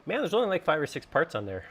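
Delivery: high, bright incredulous aside; marveling at how few parts; amused disbelief. Retold or imitated. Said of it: "I was looking at this going".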